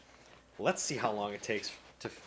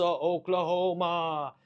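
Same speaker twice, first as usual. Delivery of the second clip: slow, spooky drawn-out Oklahoma; creepy horror-movie announcer; scary voice; 7 semitones higher, 6 dB louder, much slower than usual. Real, not acted. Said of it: "I don't know why I made that scary voice".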